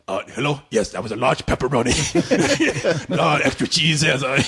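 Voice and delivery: a lightly voiced old master on the phone; mock master on phone. The master takes a pizza call, lightly voiced. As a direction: casually order a pizza mid-fight. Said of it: "and he's like".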